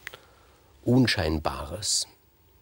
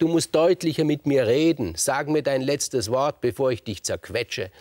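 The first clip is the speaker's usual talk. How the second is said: big impatient demand, higher and louder, slowing down; threatening giant; 5 semitones higher, 3 dB louder than usual. Acted. Orion bending down to threaten the scorpion, impatient and menacing. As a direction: loom over him and threaten to crush.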